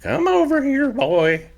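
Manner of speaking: high, gentler ranch mother voice; fiery mother turned kindly; softened mother. Acted. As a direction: ease off the scolding, offer supper. Mother calls son for hug.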